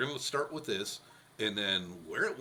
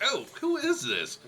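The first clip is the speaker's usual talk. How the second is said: puzzled caller; 7 semitones higher, 6 dB louder than usual. Retold or imitated. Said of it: "They're like".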